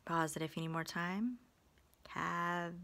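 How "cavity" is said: soft, separated syllables on "Cavity". Shown as a demonstration. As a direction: sound out "Cavity" quietly, middle vowel a clear "uh". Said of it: "We hear a schwa in the middle".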